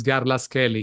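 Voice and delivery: Garlaschelli with a hard k, "Garlas-kelli"; Italian pronunciation. Shown as a demonstration. Guest correcting the host's pronunciation of a surname, Italian pronunciation. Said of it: "so you pronounce Garlaschelli".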